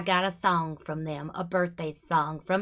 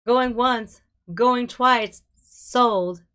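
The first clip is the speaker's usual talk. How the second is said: auctioneer; 3 semitones higher, 6 dB louder, much slower than usual. Pretend. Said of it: "I'm sorry, I just had to".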